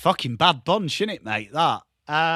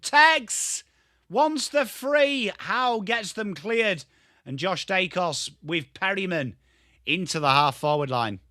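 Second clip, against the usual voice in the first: play-by-play commentary; 2 semitones higher, slower than usual. Acted. Streamer calling Tex's free kick, play-by-play commentary.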